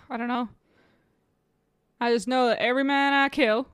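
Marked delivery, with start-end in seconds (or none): 2.0-3.7 attempted New York accent that sounds Southern; New York accent slipping Southern. Player retries a film quote, New York accent coming out Southern. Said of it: "that's just sounds Southern".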